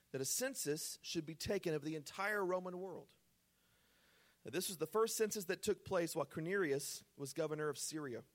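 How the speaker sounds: solemn reading voice; scripture reading. Acted. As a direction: read the verses with weight. Reads scripture aloud.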